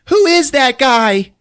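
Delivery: high, drawn-out question; hammed-up exasperated character; mock alarmed demand. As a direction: yell it slowly in disbelief. Character demands answer, retold.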